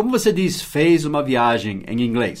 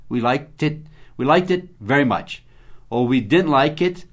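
ordinary talk

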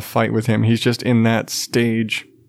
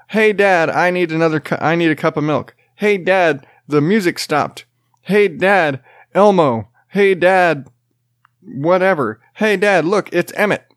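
put-on whiny toddler calling; 5 semitones higher than usual. Toddler calling to dad from bed, high and pestering. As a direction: pester dad from the bedroom, over and over.

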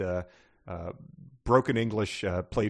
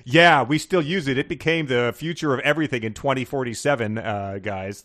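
excited future guy; 4 semitones higher, 5 dB louder than usual. Acted. Voicing a future character.

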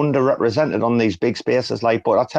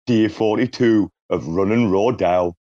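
Big Brother narrator voice. Retold or imitated. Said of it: "I was doing it in his voice".

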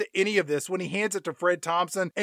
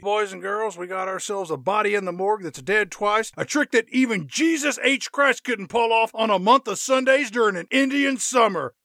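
put-on Southern accent. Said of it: "with that thick Southern accent".

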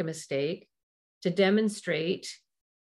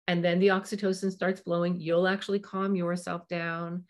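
ordinary talk

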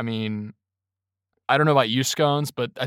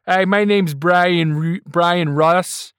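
Brian Russ impression; slower than usual. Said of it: "That's a great Brian Russ impression".

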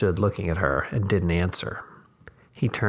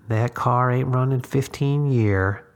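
put-on old woman voice; 5 semitones higher, 4 dB louder than usual. A narrator's reading. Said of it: "the old woman said".

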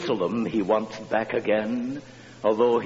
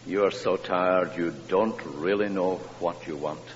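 tender mother. Retold or imitated. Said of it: "she said".

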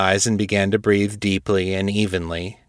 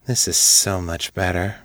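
purring. Acted. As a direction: purr it out seductively. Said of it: "she purred".

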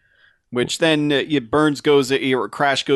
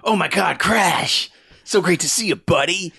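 higher, put-on delighted voice; guard fawning over Crash, mock-excited; gushing greeting; 6 semitones higher than usual. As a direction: greet him like a long-lost buddy.

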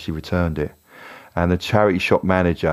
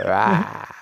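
slightly high mock scream; half-hearted scream; 4 semitones higher than usual. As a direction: feeble fake "aah". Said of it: "scream and make an uglier face".

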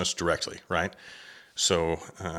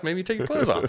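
laughing; 13 semitones higher than usual. Real, not acted. Joking about hunting with wife.

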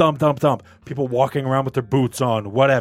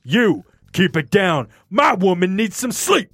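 mock tough guy; 3 semitones higher, slower than usual. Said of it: "knock on the door and go".

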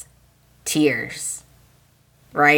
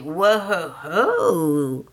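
drawn-out "whoa, ho, ho"; mock-astonished whoa; stunned reaction; much slower than usual. Fan reacting to Hope's words, stunned.

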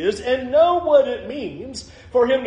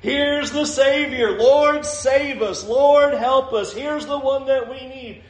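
slow, higher-pitched cries of praise, lightly acted; crying out in praise; 4 semitones higher than usual. Children hailing the Savior in the temple, mild crying out. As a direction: lightly imitate children calling out for rescue. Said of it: "are still crying out".

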